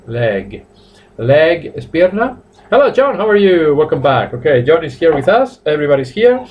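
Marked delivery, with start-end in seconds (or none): 0.1-0.7 "leg" ending in a gentle voiced G; "leg" with a softly released English G. Shown as a demonstration. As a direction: say "leg" with a light final g. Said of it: "es suavecita la G".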